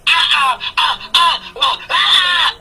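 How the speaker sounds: mock sputtering "ah" sounds; stuttered, half-hearted screaming imitation; imitated yelling. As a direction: mimic someone's wordless tirade without full volume. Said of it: "The yelling and the screaming".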